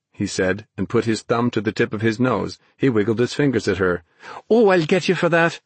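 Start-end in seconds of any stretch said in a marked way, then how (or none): 4.5-5.6 high, cross comeback; indignant threat. A narrator's reading. Naomi answers Ben's taunting, indignant. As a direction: threaten revenge, voice raised in pitch.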